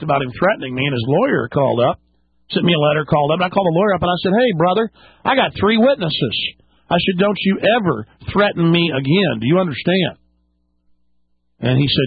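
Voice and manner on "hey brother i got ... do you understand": retold stern warning.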